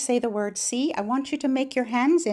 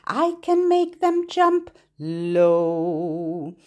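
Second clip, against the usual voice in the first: voice down low; 5 semitones lower, 3 dB louder, slower than usual. Shown as a demonstration. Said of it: "Lift your hands up high".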